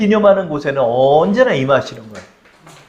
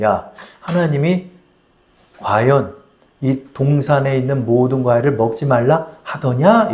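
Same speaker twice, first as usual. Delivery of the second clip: insinuating devil; 5 semitones lower than usual. Retold or imitated. Satan asks Eve if God really forbade it, low insinuation. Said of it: "이렇게 물어보는 거예요".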